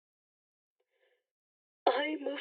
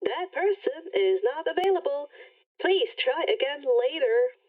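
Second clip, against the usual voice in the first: automated message. Acted. Rainbow rejects again.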